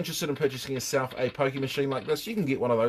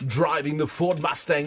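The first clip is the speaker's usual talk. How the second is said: slow, failed American accent that sounds Australian; attempted American accent. Shown as a demonstration. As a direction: try an American announcer accent and miss. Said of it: "try talking in American".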